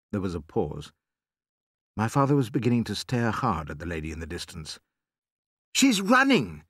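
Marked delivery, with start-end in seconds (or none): 5.7-6.6 high-pitched cry of alarm; excited cry. A narrator's reading. Doctor spotting the woman running, cried out. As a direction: cry it out in sudden surprise. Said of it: "Doc Spencer cried".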